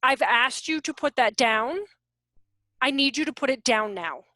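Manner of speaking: calm, even, firm request; steady voice, no yelling; firm and neutral. Shown as a demonstration. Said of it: "That way".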